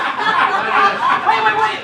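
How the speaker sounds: high, loud repeated halt; urgent interruption. Acted. Husband halts wife in the car, urgent.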